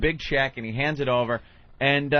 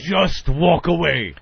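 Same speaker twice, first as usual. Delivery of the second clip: curt brush-off; 3 semitones higher, slower than usual. Retold or imitated. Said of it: "he just went".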